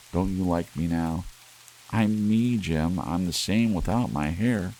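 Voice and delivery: put-on a young wife begging her husband not to be angry; pleading young wife. Della pleads.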